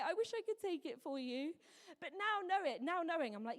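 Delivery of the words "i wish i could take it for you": higher, mock-sweet imitation of a doting mum; sarcastic parody of mum's sympathy; patronizing mum. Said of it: "most patronizing conversation".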